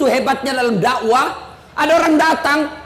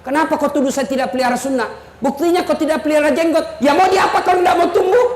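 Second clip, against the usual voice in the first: offended retort; 3 semitones higher, faster than usual. Retold or imitated. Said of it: "Saya agak tersinggung".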